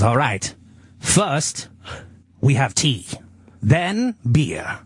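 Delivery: mock tavern owner. Retells the tavern owner's slow pitch.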